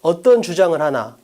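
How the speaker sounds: 어떤 picked out, then a falling 주장을 하나; stress on 어떤. Shown as a demonstration. Teacher repeating student B's way of reading, 어떤 stressed. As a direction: repeat it deliberately, weighting 어떤. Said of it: "B는 이걸 읽을 때 어떻게 읽어".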